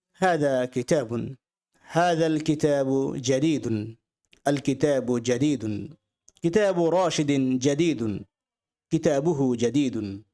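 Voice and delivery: careful, measured recitation of the Arabic drill; Arabic drill demo. Shown as a demonstration. Teacher models the Arabic drill for the class, careful recitation. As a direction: recite the Arabic sentences steadily, as a model for students. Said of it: "আমি একবার দেখাচ্ছি".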